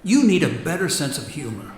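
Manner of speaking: chuckling. Acted. Ghost chuckling.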